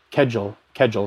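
"Kedgel" said as a looked-up pronunciation, first vowel like "bed"; trying out pronunciation. Shown as a demonstration. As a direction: sound out "Kedgel" as KEJ-ul, twice. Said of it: "it's pronounced like cudgel".

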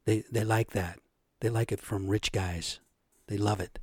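lightly voiced smug boaster, low and hushed; mock Trump-style boast. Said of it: "he was saying behind the scenes".

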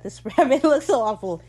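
loud, high dismay; appalled. Real, not acted. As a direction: exclaim how awful it looks. Reacting to a gross prop rabbit.

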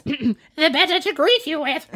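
hammed-up creepy storybook wolf. Disguised wolf answering the girl, creepy put-on voice. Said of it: "Wow, that was really creepy".

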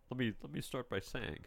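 formal legal reading. Acted. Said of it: "you're talking like a lawyer".

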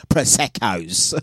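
put-on drawn-out order in a made-up accent; name the drink slowly in a mock accent; Maureen's fictitious accent. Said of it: "her accent is this".

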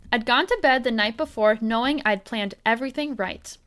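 expressive read-aloud with clear phrasing; story narration. A narrator's reading. Host reading out a tattoo prank story, expressive narration. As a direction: tell it as a prank story unfolding.

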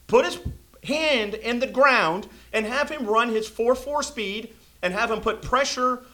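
rising fury at a bad play call; getting angry. Real, not acted. Fan podcaster yelling at Todd Bowles, angry shout. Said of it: "I'm getting all angry".

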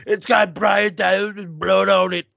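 high, put-on nerdy seller voice; mock nerd seller. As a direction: hawk it like an excited nerd. Imitating a nerd selling on eBay.

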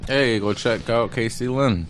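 talking through a sticky mouthful; words round peanut butter; mouth full of peanut butter. Real, not acted. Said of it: "He, he's eating right now".

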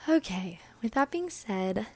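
breathless podcast chatter; out of breath. Real, not acted. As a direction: speak while catching your breath. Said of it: "I really need to catch my breath".

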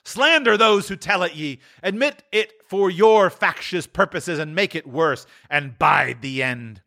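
high, fading warning; solemn spirit. Acted.

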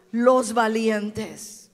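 los valientes slow and loud, with a laugh; rallying slow shout. Shown as a demonstration. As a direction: proclaim it slowly for the crowd. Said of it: "Dígalo fuerte".

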